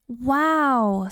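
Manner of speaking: a wide-eyed gasp of wonder; amazed wow. Acted. Buzz amazed in space.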